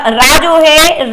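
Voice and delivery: teacher stretching रा; drawn-out ra. Shown as a demonstration. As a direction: stretch the syllable रा slowly. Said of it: "यहाँ पे देखिएगा रा".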